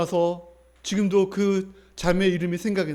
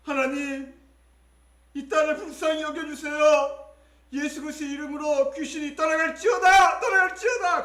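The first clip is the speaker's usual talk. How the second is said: high, strained exorcism prayer; re-enacted prayer; 9 semitones higher than usual. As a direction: build from pleading to commanding. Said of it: "기도했습니다".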